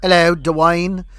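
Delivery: slow imitated British greeting; mock British accent, two-syllable name. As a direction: put on a British accent, drawn out. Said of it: "He says it with a British accent".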